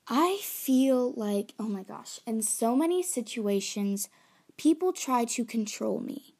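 dramatic, worked-up venting with loud punched words; a little dramatic. Real, not acted. Venting about people controlling their choices, a little dramatic. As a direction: get carried away, leaning hard on key words. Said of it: "I'm getting a little dramatic here".

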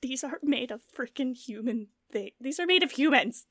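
mildly acted shock, rising in urgency; mock shaken horror. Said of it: "hear in their voice, they're just, like, shaking".

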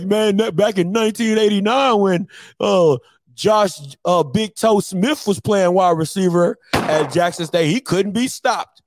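lightly voiced old-timer, hyping up the past; old head reminiscing. Old head recalling Jackson State glory days, hyped-up reminiscing. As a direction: brag like an old head about a football legend. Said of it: "that's what y'all old heads sound like".

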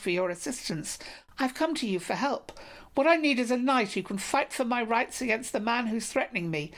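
a desperate maiden begging the king for help; pleading maiden. Acted.

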